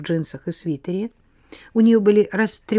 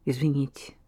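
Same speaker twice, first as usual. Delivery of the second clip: mumbled apology; 3 semitones lower, 6 dB quieter than usual. Acted. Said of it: "пробормотала та".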